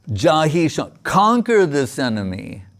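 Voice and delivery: rousing, emphatic urging; pep talk. Retold or imitated. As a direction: urge them on like a spiritual coach. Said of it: "he's giving Arjuna a pep talk".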